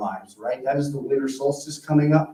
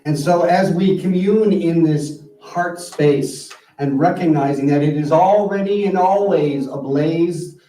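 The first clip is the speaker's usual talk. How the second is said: spoken prayer. Real, not acted. Minister concludes the service for the congregation, measured prayer. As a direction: lead them into prayer, phrase by phrase.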